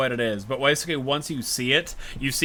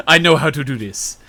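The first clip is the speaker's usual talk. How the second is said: louder flip to confidence; mock confident; 6 dB louder than usual. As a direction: snap to sudden certainty. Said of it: "something I noticed".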